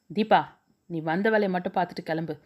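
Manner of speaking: sharp, fast angry retort; quick cutting anger. Acted. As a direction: snap at her to stop meddling. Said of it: "என்றவள் கோபத்துடன்".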